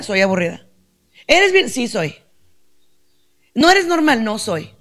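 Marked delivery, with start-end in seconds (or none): 1.3-1.7 much higher and louder sneering voice; mocking critic. Imagined critic judging her. 3.5-4.2 much higher and louder sneering voice; mocking critic. Imagined critic judging her.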